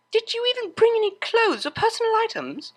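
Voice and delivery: high, exasperated demand; irritated question. Acted. Octavia, finding only records, asks the sleeping DJ irritably. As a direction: snap at the snoring friend. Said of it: "she asked irritably".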